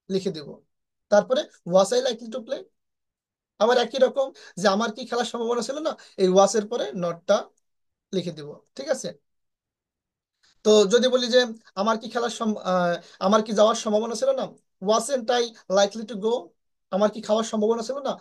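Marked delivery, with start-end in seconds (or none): 1.7-2.6 slow, word by word, was I likely to play; slow dictation pace. Shown as a demonstration. Teacher dictating the sentence slowly to Bengali students. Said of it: "প্রথমে". 14.9-16.3 slow model sentence. Shown as a demonstration. Teacher models example sentence.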